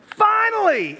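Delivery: excited cry. Retold or imitated. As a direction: cheer like you've waited years. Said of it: "and I said".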